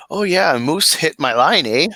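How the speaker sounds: mock Canadian with a lilting "eh"; imagined Mike. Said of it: "I'm just imagining Mike".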